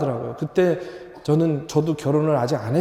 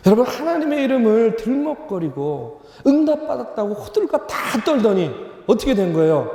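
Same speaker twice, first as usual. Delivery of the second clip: forceful preaching; 5 semitones higher than usual. Real, not acted. Pastor rebukes congregation for misusing God's name, forceful preaching. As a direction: drive the rebuke home to the congregation.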